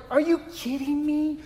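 retold anger. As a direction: replay the indignation at the email. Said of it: "I was angry because I was like".

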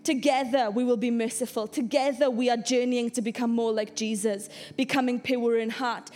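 rally the church with each together; stirring sermon climax; preaching at full force. Acted.

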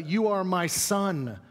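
slow, tender fatherly line; tender address. Shown as a demonstration. Paul addressing Timothy, slow and tender. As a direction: say it like a father to a beloved son. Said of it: "that's a term of endearment".

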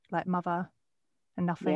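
"mother" as "muvver", "nothing" as "nuffink"; th-fronted "mother" and "nothing", Essex style. Shown as a demonstration. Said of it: "I used to say the V and the Fs".

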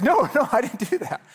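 put-on high, loud childish denial with a laugh; defensive kid. Boy telling his mom he didn't hurt Kyle, high and defensive. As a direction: protest like an upset little boy.

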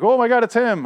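high, loud gushing exclamation; mock awe. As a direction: exclaim like a starstruck follower, hammed up. Voicing awed cult members recognizing him.

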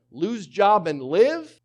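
slow, loud and high sailor's choice; desperate sailors. Retold or imitated. Preacher voicing panicked sailors, slow and loud. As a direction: spell out the grim bargain slowly. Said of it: "They're going".

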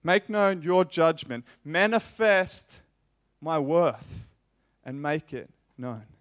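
loud, drawn-out impassioned plea; preacher's loud plea, "Manifest" stretched long; fervent prayer. Acted. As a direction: call on the Father, slowing on "Manifest". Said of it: "he's saying".

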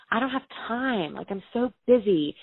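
defensive retort. Retold or imitated. To her brother at the kitchen table, defensively upset. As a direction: snap back, feeling cornered. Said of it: "getting really defensive and really upset".

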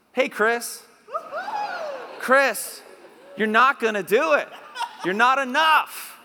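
loud, high, emphatic rebuke; mock telling-off. Preacher telling Chris he will never be enough, loud mock rebuke. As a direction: build from a call-out to shouted insistence.

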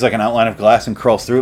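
normal talking voice

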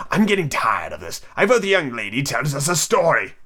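lightly voiced tired hare; yawning March Hare. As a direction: say it as if bored and yawning.

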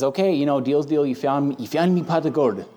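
lightly put-on Irish accent; a hint of an amateur Irish brogue. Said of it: "it's my best Irish accent".

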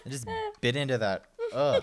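quick laughing groan; laughing disgust. Real, not acted. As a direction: laugh through the gross taste. After biting a gross bean.

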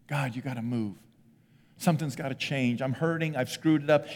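a hurting worshipper quietly begging for help; desperate prayer. Pretend. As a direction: plead quietly with God.

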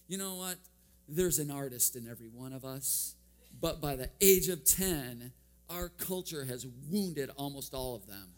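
lightly voiced lecturing professor addressing the class; imitating the professor. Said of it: "he says to the entire class".

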